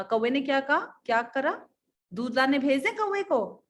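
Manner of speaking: ordinary delivery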